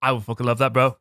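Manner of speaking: lightly voiced party bro; mock bro greeting. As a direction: hail your old pal. Holly King replies.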